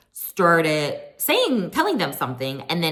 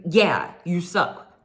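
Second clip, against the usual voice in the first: mock paraphrase; 2 semitones higher, slower than usual. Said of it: "She didn't say it like that".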